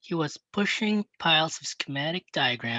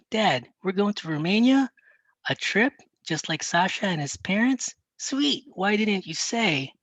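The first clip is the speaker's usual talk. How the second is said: excited; 6 semitones higher, 3 dB louder than usual. Acted. Kid thrilled about the trip.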